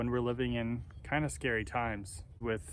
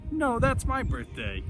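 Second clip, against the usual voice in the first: pitched way up and slow in disbelief; high disbelieving squeal; 12 semitones higher, 4 dB louder, slower than usual. Retold or imitated. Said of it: "she's like".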